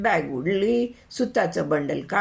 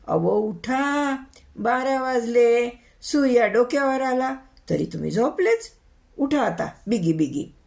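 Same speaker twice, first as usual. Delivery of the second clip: raised-pitch, impatient nagging to get up; urgent wake-up call; 4 semitones higher than usual. Acted. Wife shaking her drunk husband awake, urgent nagging. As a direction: rouse a heavy sleeper.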